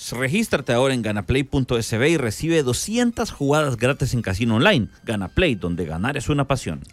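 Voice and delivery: sponsor ad read. Acted. Reads a sponsor spot.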